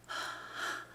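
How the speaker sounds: soft, wordless breath out; stunned exhale. Retold or imitated. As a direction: let out an acted breath of disbelief. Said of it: "I'm just going".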